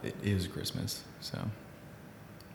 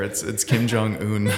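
put-on Korean accent; 6 dB louder, slower than usual. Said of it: "Let's forgive my Korean accent".

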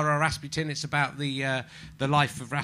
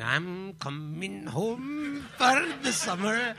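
put-on Irish accent; 5 semitones higher, 6 dB quieter, much slower than usual. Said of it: "There's a sausage advert".

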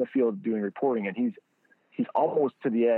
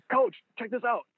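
put-on kid in a candy store. Player showing the coach a new ball, very high and thrilled. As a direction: squeal it like a kid showing off a toy. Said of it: "like a kid in a candy store".

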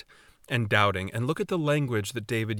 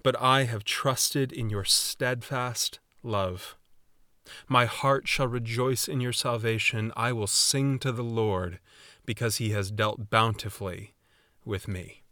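scripture reading. Acted. Reads psalm aloud slowly.

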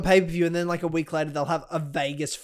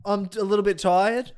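mocking imitation; 4 semitones higher than usual. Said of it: "Every episode".

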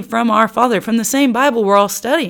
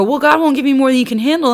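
higher, louder, fast glib mimicry; mocking platitude; 5 semitones higher, 4 dB louder, faster than usual. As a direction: parrot the empty comfort mockingly. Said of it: "they go".

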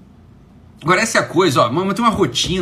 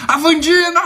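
high, loud delighted shout of her name; excited call; 11 semitones higher, 5 dB louder than usual. Real, not acted. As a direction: call out to her, thrilled to see her. Spots a friend in the live chat. (chamando animado, voz alta e aguda)

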